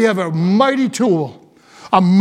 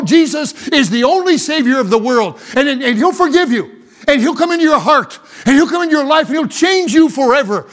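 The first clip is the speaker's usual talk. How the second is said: impassioned pulpit delivery; forceful preaching; 3 semitones higher than usual. Real, not acted. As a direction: drive each phrase home to the congregation.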